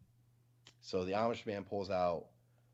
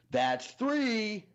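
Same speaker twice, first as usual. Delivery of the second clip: much higher, louder threatening count; menacing mock count; 13 semitones higher, 6 dB louder than usual. Amish man turning the shotgun on his wife, hammed-up threat. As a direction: aim the number at her like a warning. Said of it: "looks at his wife with the shotgun and he goes".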